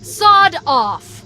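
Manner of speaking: angry retort. Acted. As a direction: tell him off hard. Cortana defying the Monitor.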